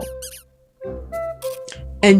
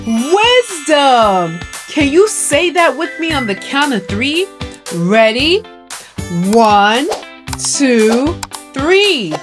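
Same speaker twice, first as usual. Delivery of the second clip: kindergarten teacher. Acted. Teaches children a word.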